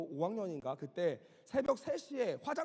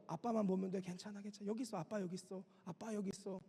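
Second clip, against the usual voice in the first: soft, soothing fatherly murmur; tender imitated reassurance, much softer; reassuring father; 6 dB quieter than usual. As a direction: quietly comfort a scared child as a father. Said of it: "아버지의 그윽한 음성이 들려지고".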